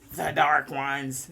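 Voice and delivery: slow, low and ominous; ominous dark voice. Pretend. Speaker briefly voicing the dark ones, low and slow. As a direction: drop into a sinister hush.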